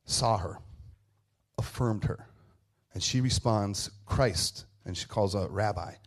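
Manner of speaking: low, softened, with long pauses; tender reverence. A narrator's reading. Preacher telling of Mary recognizing Jesus, tender. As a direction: let each phrase land gently.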